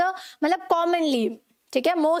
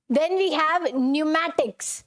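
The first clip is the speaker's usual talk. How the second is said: slow careful reading; much slower than usual. Shown as a demonstration. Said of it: "teacher reading a word slowly".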